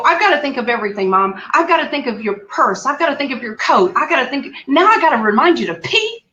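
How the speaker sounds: exasperated list, mildly re-enacted; retold yelling. Daughter venting at mom about reminders, retold yelling. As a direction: pile up the complaints, peaking at the end. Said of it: "I'm yelling at her the whole time".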